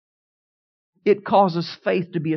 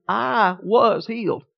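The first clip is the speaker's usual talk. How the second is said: slow, every word of "I was healed" set apart; measured declaration, weight on each word; word-by-word stress; much slower than usual. Retold or imitated. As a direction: draw out "I", "was", "healed" separately. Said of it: "emphasize every single word in it".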